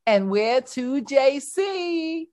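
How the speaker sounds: put-on high, lightly Yiddish-accented Jewish wife. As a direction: play a fussy Jewish wife with a Yiddish lilt. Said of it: "Let's look at Esther".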